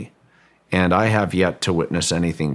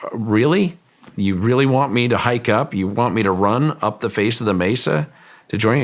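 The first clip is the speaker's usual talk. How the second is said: incredulous call up the slope, pitched higher; mock yelling back in disbelief; retold yell; 4 semitones higher than usual. The speaker yells up to the physicist on the mesa, mock incredulous shout. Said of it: "And I look up and I yell".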